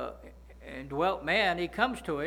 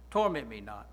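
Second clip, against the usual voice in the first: pleading demon; 8 semitones lower than usual. Retold or imitated. Preacher voicing the demon begging Jesus, low and pleading. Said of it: "He said, "I beg thee".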